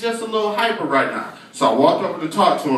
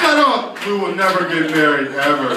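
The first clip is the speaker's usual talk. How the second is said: exasperated outburst. Acted. Fed-up partner to a nitpicking movie watcher, mock exasperation. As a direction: burst out, then lay down the verdict.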